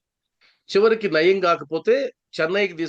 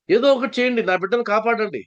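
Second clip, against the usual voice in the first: pleading mother; 5 semitones higher than usual. Retold or imitated. Mother begging for help.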